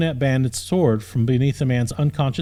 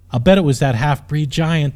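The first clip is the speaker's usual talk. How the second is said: huffy exclaim; 2 semitones higher, 4 dB louder than usual. Acted. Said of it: "exclaimed loudly with a huff".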